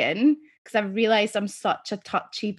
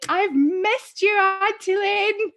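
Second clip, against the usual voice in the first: put-on much higher and slow, sweet child voice; little boy; 11 semitones higher, 4 dB louder, much slower than usual. Nephew leaping into his aunt's arms, sweet high child voice. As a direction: say it like a small boy hugging his auntie. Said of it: "He's like".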